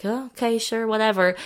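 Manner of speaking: a lightly voiced shrugging "whatever"; mock indifference. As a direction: toss it off as if nothing matters. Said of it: "neutral makes it sound like".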